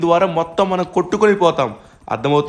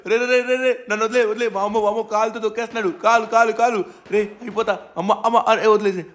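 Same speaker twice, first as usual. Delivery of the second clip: higher-pitched panicked pleading; mock panic; 4 semitones higher than usual. Crushed under the titan's foot, frantic pleading. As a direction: beg to be let go, frantic.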